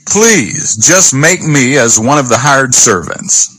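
a touch of humble begging, as the returning son; mild plea. Acted. Prodigal son pleading to father.

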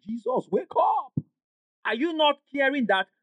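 lightly acted alarmed disciples; disciples waking Jesus. Disciples shaking Jesus awake in storm, mock urgent plea. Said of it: "They now went to shake him".

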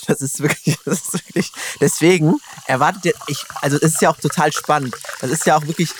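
chewing between words; talking through a bite; mouth full. Real, not acted. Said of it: "Was wird denn da gemampft nebenbei?".

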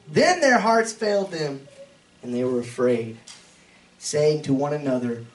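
scripture reading. Acted. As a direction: read the verse out slowly, with weight. Reads scripture aloud in sermon.

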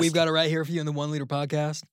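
relaxed, run-together American intro; easygoing American host; casual American accent. Shown as a demonstration. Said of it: "make it a bit more casual".

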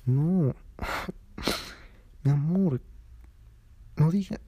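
high, giggly disbelief; laughing denial. Retold or imitated. Drunk girlfriend giggling at her boyfriend's accusation, high and amused.

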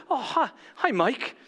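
high, lilting hellos; welcoming group hello; friendly greeting. Acted. Community greets each confessor by name.

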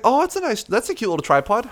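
high, patronising mock voice; condescending old guy. Narrator mocks the photographer belittling his tripod, high and patronising. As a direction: sneer at the small tripod.

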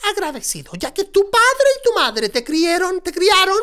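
put-on high, scolding older woman voice; scolding mother. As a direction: play the reproachful mom, lecturing. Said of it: "tú en tu casa estarás diciendo".

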